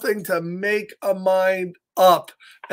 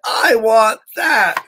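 put-on eager child; 3 semitones higher, 4 dB louder, slower than usual. Kay picks the cat in story.

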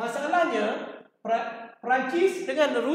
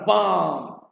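spoken "bam" for gunfire; imitated bang; 5 semitones lower than usual. Teacher announcing war has broken out, imitated bang. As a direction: punch out a lower-pitched bang.

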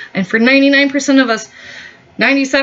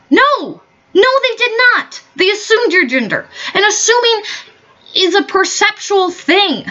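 much higher, fired-up correction; heated rebuttal; 9 semitones higher than usual. Real, not acted. Vlogger firing back at activists, high and heated. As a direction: push back hard, voice climbing.

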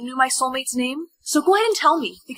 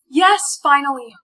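relieved cheer; 4 dB louder, slower than usual. Acted. Freed from the outfit rule.

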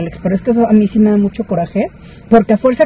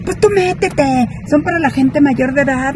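grito imitado; 5 semitones higher than usual. Retold or imitated. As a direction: mimic her yelling without real volume. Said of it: "no sé qué tanto gritaba". (grito fingido, agudo y alargado)

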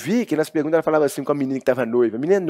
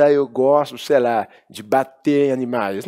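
naive; slower than usual. Shown as a demonstration. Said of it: "Ficar falando assim".

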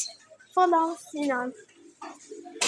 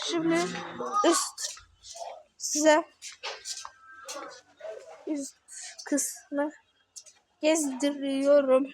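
robot voice; slower than usual. Pretend. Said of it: "Robot gibi konuştuğuma bakmayın".

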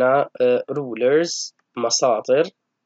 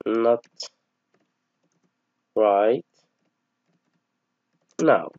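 word-by-word dictation; much slower than usual. Shown as a demonstration. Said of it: "إذن يقول له".

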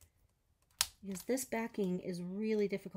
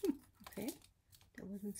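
tight, breath held in; holding breath; 9 dB quieter, faster than usual. Real, not acted. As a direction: speak while holding your breath. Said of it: "I'm holding my breath".

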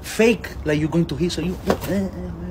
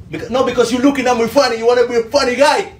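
louder, higher, quick-fire reprimand; indignant scolding; 4 semitones higher, 5 dB louder, faster than usual. Acted. Officer arresting someone for looking at him funny, indignant. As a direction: pull rank with indignant heat.

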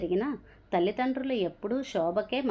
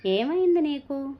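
alarmed; 7 semitones higher, 5 dB louder than usual. Acted. Daughter calls out to her mother.

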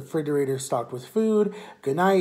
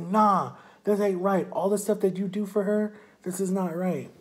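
higher-pitched retold indignation; indignant refusal; 5 semitones higher than usual. Ex-boyfriend told to calm down, indignantly refusing. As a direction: imitate someone refusing to be calmed.

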